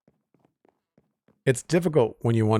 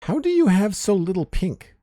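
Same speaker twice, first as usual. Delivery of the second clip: surprised; 10 semitones higher, 6 dB louder than usual. Real, not acted. Marvels at friend's missing pink.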